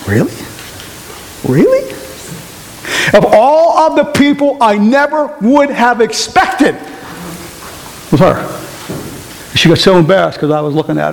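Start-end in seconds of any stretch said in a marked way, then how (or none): 0.1-1.9 very high rising squeak; shocked disbelief. Retold or imitated. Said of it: "and I went". 3.1-8.5 high and slow; amazed disbelief. Retold or imitated. Continued disbelief.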